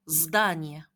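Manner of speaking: здание drawn out slowly; slow demo. Shown as a demonstration. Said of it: "라고 하시면 됩니다".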